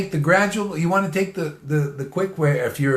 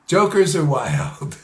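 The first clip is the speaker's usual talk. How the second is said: laughing; 2 semitones higher, slower than usual. Real, not acted. Laughing punchline repeated.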